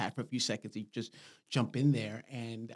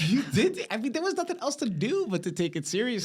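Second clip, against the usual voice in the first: laughing; 11 semitones higher, 5 dB louder than usual. Real, not acted. Laughing about upstate seriousness.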